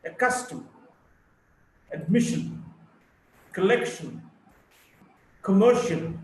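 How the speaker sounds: light first syllable, strong second, as in ac-CUS-tom, de-CI-sion; second-syllable stress. Shown as a demonstration. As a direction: punch the second syllable, like ho-RI-zon, to-BAC-co. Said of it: "Primary stress on the second syllable".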